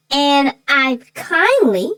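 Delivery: slow, drawn-out kindly with a knowing edge; not-so-kindly. Retold or imitated. Telling her co-host about the neighbor, ironic slow kindly. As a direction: lean on kindly so everyone hears it wasn't. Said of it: "We know your version of kindly".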